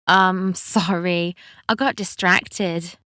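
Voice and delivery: slow, hesitant apology; embarrassed and halting; flustered. Acted. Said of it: "Wendy stammered".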